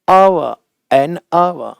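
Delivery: अव starting straight on the vowel, drawn out; silent H. Shown as a demonstration. Teacher modelling the word without H, slow silent-H अव. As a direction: slowly model अव with no H at all. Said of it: "नहीं होता".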